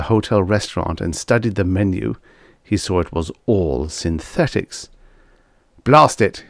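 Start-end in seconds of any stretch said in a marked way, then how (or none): 5.8-6.4 mildly angry bark, higher and louder. A narrator's reading. Diner cursing the synthetic menu, barked. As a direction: curse it sharply into the phone. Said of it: "he barked into the table phone".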